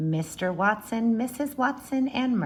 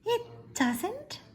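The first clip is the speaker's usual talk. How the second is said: much higher, puzzled little sister; surprised Baby; 14 semitones higher than usual. Acted. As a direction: squeak it up high in surprise. Baby surprised, voiced in read-aloud.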